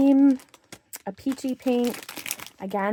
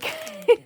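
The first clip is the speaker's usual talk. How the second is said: breathless laugh; 5 dB louder than usual. Real, not acted. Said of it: "hard to catch my breath".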